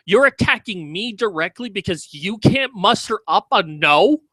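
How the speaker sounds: ordinary talk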